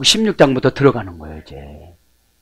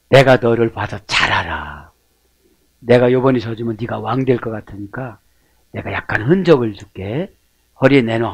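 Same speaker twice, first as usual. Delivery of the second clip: God's voice; 6 semitones lower, 7 dB quieter than usual. Retold or imitated. God voiced speaking to Jacob.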